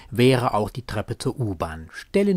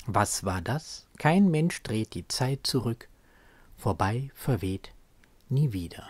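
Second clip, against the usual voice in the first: measured poetry reading with deliberate pauses; solemn spoken poem; poem recitation. Acted. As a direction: recite it as verse, letting short phrases stand alone. Quotes the poem between commentary.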